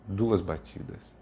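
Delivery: slow, each syllable tapped out; batidas marcadas. Shown as a demonstration. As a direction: count the beats out slowly.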